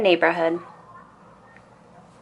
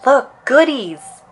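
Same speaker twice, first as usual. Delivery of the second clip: higher, slow, eager little cub voice; 7 semitones higher, 5 dB louder, slower than usual. A narrator's reading. Brother spotting groceries, eager and delighted. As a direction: gasp it out like a greedy kid. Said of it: "said Brother".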